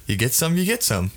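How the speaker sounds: offhand and casual; nonchalant. Shown as a demonstration. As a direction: toss it off like it's nothing. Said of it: "like, so nonchalant".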